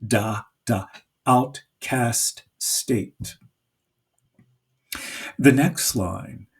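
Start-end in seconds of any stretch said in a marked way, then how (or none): 0.1-3.4 "outcast state" slow, both words even and heavy; drawn-out even stress on "outcast state"; spondee stressed. Shown as a demonstration. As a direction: lean on "outcast" and "state" equally. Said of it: "at the end of the line".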